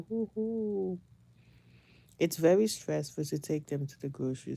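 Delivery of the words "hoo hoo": little high hoo-hoo; softly hooted cheer; celebratory whoop. Acted. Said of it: "but you say".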